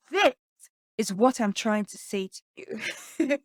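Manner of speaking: "This" punched, then a pause before the rest; stress on This. Shown as a demonstration. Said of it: "What words are you emphasizing?".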